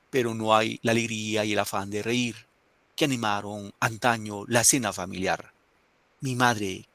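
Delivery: reading a poem aloud with feeling; teacher reading a poem to students. Acted. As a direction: recite each line with nostalgic care.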